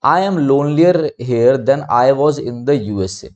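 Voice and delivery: very slow, deliberate read of the faulty sentence; slow example reading. Shown as a demonstration. Teacher reads the incorrect sentence to students, slow and deliberate. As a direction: read the exercise sentence out slowly. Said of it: "यहाँ पर आपका more हट जाएगा".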